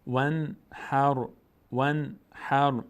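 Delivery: "ون هر" in two intoned pieces; syllable drill. Shown as a demonstration. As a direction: join h to r in "هر", slow and high. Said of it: "ه میچسبه به را".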